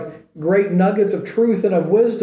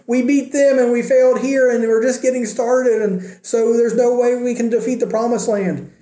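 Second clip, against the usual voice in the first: higher-pitched imitation of complaining mourners; lightly acted wail of defeat, without real tears; mock lament; 5 semitones higher than usual. Preacher voices defeated Israelites mourning their loss, mildly acted lament. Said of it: "they're mourning and they're weeping".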